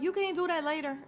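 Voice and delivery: high, loud imitated complaint; mock protest. Tariq objecting to Davis taking a call, mock protest. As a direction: pitch it up in mock disbelief.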